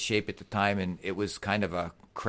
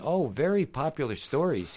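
higher-pitched imitated Russian accent; 5 semitones higher than usual. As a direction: play the Russian boxer recalling old tales. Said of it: "in his Russian accent".

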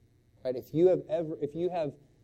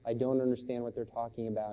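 teary daughter; 2 semitones lower than usual. Retold or imitated. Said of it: "And she's crying at this point".

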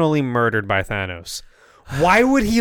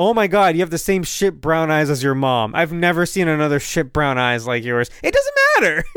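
mock insult; 2 semitones higher than usual. Mock-insulting friend's eyes.

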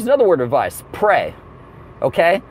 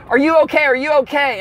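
stewardess voice; 7 semitones higher than usual. Retold or imitated. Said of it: "she runs over to me and she says".

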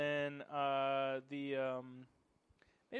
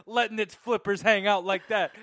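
laughing; 3 semitones higher, 10 dB louder than usual. Real, not acted. Joking while laughing.

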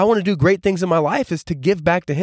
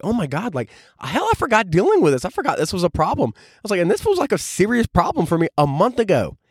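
mock shocked self; 4 semitones higher than usual. Retelling shock at old journal.

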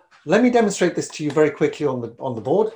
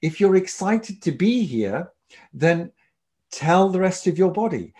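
excited; 4 semitones higher than usual. Shown as a demonstration. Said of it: "if you are excited to be somewhere, then show it".

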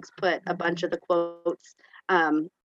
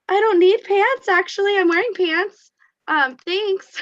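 high, raised, puzzled polite answer; mock confused reply; 12 semitones higher, 6 dB louder than usual. Para retells her confused answer to student, high and puzzled. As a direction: sound baffled but polite.

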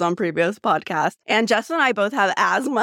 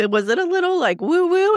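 high-pitched teasing imitation of a husband; mock husband asking, pitched way up; imitating husband; 9 semitones higher than usual. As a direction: lift the voice high to mimic a skeptical question. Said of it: "my husband was like".

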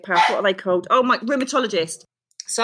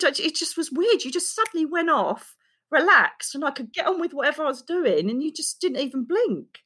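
retold amazement; 6 semitones higher than usual. Retold doctor, amazed at episode.

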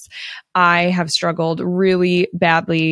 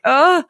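a high, strained little groan mimicking tears; retold choked-up groan; 9 semitones higher, 4 dB louder than usual. Telling her audience how she broke down on the team call, mock choked groan. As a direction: squeeze out a choked sob sound. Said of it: "and I'm crying".

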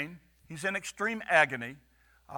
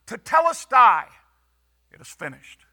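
cried out; 3 semitones higher, 8 dB louder than usual. Acted. The preacher voices Jesus crying out, loud then hushed. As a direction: cry Tetelestai out, then let the rest fall away. Quoting Jesus' cry from the cross.

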